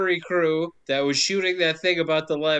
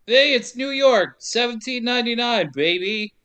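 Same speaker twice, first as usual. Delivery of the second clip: mock announcer hype; 6 semitones higher than usual. Announcing the film's setting.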